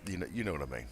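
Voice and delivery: talking round a mouthguard; gum shield in. Real, not acted. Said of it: "I've got my gum shield in again".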